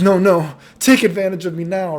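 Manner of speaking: high, loud mock demand; imitated drunken insistence. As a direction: insist as the pushy drunk girl. Drunk girl insists, retold.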